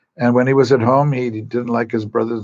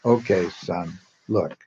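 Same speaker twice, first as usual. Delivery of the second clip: lower, calm motherly voice; patient mother; 4 semitones lower, 4 dB quieter, slower than usual. Acted. Christian mother to her crying son, calm and patient. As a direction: settle him down gently, a bit softer. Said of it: "being a good Christian mother".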